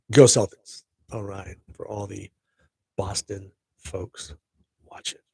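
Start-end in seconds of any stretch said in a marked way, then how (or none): 0.1-0.8 loud quick cheer, GO punched. Real, not acted. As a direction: shout it for the Boston fans. Cheering on the Boston team.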